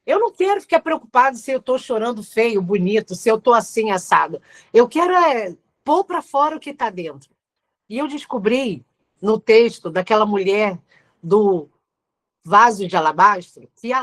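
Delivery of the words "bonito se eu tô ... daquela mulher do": ordinary talk, nothing marked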